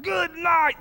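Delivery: high, amazed exclamation; astonished gasp. Retold or imitated. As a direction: say it stunned with amazement. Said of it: "They're astonished".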